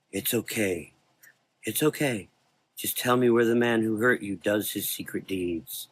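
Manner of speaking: calm him gently; soothing. Acted. Dark man soothes.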